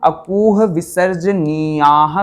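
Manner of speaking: slow, measured chanting of the sutra; sutra recitation. Shown as a demonstration. Teacher reciting a Sanskrit sutra to students, slow and measured. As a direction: recite each syllable slowly and carefully. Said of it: "ये सूत्र क्या कहते हैं?".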